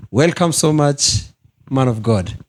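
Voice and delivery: normal talking voice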